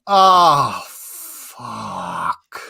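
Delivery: drawn-out Scottish swear, loud then dropping away; Scottish accent. Acted. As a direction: let a long Scottish groan of a swear fade out. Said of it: "gotta be done with the accent".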